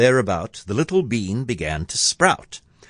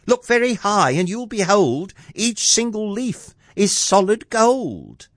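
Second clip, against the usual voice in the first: very high, excited lad; boy crying out; 11 semitones higher than usual. A narrator's reading. Jack showing his mother the gold leaves, boy crying out. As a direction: pipe it up high, full of discovery. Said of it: "cried Jack".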